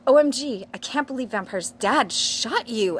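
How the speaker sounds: high, loud mock shock; hammed-up astonishment, highest at the start; gasped. A narrator's reading. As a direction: exclaim it like an aghast teenager. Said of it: "I gasped".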